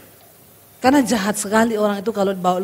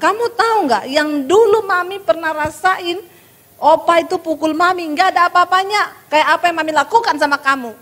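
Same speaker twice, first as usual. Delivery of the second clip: a mother's raised, bitter reproach; scolding mother; 7 semitones higher than usual. Retold or imitated. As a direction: lash out at the kid like you can't stop. Mother scolding her child.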